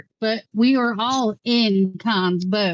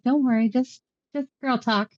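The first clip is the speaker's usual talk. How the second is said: higher-pitched pretend sweetness; smiling reassurance; 6 semitones higher than usual. Pretends to the others it is only girl talk, smiling reassurance. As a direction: brush it off with a pretty little smile. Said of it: "give a pretty little smile".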